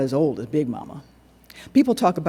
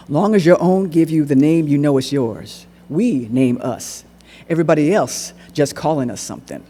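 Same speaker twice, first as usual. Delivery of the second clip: put-on old man Tweezer; 6 dB louder than usual. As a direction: lean in and press each word. Old man Tweezer speaking earnestly.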